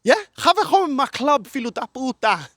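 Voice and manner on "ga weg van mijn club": slow, loud careful Dutch; loud slow attempt at Dutch; learning Dutch. Shown as a demonstration. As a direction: sound out the Dutch line slowly. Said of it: "How do you say it?".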